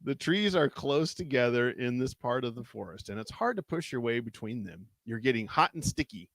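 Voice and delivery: measured read-aloud storytelling; story narration. A narrator's reading. Reading a choose-your-path adventure aloud to a co-host, story narration. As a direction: narrate an adventure, lingering on the suspense.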